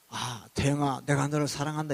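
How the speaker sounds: lightly voiced lofty, loving voice; 고상한 음성. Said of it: "그런 고상한 음성이 아니야". (살짝 흉내 낸 고상한 음성)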